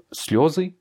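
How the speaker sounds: "слёзы" with the accent on слё; stress on yo. Shown as a demonstration. Teacher repeats the example to a student, stressing ё. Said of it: "a son accent tonique sur le yo".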